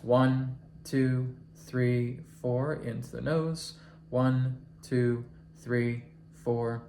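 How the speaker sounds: calm, even counting of each breath in and out; counted breathing demo. Shown as a demonstration. Teacher showing his class calm breath counting. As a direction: count the breaths aloud so the class can follow. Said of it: "I'm doing the heart rate variability".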